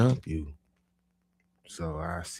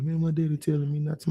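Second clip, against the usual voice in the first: mock crying; 10 semitones higher, 4 dB louder, faster than usual. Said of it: "busts out crying".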